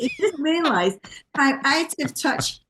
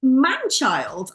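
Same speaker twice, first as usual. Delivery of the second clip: exasperated telling-off, pitched up; mock scolding; 3 semitones higher than usual. Commentator telling off a sloppily dressed radio presenter, mock scolding. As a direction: scold him like a scruffy schoolboy.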